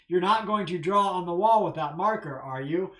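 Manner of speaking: a mild, firm parental warning; stern warning. Shown as a demonstration. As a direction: warn the children off a little sternly. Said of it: "I'm sort of sternly warning them".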